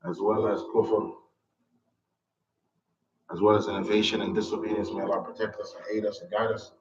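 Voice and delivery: unhurried, devout supplication; measured dua to end the lesson; closing prayer. Acted.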